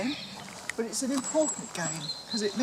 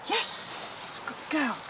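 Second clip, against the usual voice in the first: squeaky praising a dog; 5 semitones higher, slower than usual. Real, not acted. Praising puppy on recall.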